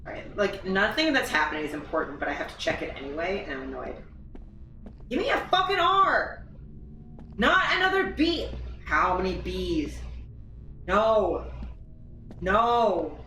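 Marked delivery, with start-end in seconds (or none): 5.1-8.5 frustrated yelling. Real, not acted. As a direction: shout at the game for a letter. Begging game for letter.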